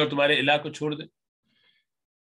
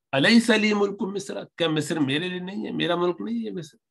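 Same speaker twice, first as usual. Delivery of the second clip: Pharaoh's boast; 6 semitones higher than usual. Acted.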